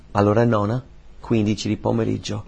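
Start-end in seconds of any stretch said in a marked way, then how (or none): none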